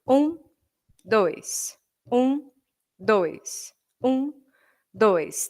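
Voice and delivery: strong-weak, strong-weak counting; binary count. Shown as a demonstration. Teacher counts binary meter, accenting every one. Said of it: "trabalhando o binário".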